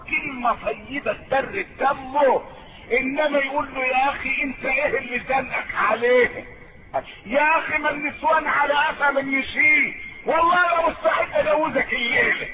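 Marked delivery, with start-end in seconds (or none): 3.8-12.5 higher, louder jovial needling; meddling friend. Acted. A meddling friend urges the husband, jovial and louder. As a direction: egg him on like a nosy buddy. Mocking the bad friend's advice.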